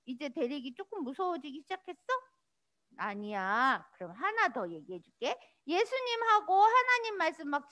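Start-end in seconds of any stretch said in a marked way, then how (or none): none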